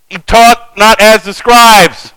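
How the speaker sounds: slow, emphatic on "taught"; stressed. Shown as a demonstration. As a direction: lean on "taught", slowly. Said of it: "preacher emphasizing the verse".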